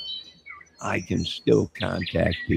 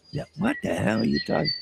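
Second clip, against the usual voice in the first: much higher, fast, incredulous squeak; squeaky baffled reply; 11 semitones higher, 4 dB quieter, faster than usual. Pretend. Skit character squeaking in confusion at a stranger. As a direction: squeak out the question in disbelief.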